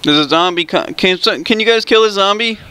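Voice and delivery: squeaky voice. Acted. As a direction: pitch it up into a silly squeak. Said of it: "I'm gonna go with the squeaky voice".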